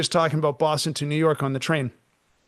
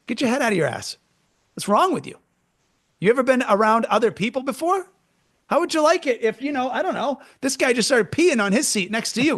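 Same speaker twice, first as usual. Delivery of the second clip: a hint of a fed-up tough guard, higher; 4 semitones higher than usual. Guard telling off the nail polish woman, mock tough. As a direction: tear into her like a rough bouncer. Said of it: "I think we need people to be like".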